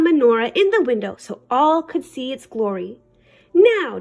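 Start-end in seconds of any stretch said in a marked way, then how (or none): 3.5-4.0 declaring. Acted. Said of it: "declared Papa".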